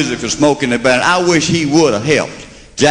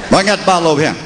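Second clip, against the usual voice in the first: Southern accent; 4 semitones higher, faster than usual. Shown as a demonstration. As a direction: call it out in Southern dialect. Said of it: "the Southern version of".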